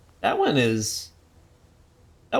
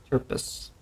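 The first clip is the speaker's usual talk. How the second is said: whispered name; 8 dB quieter than usual. Pretend. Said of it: "That's his name".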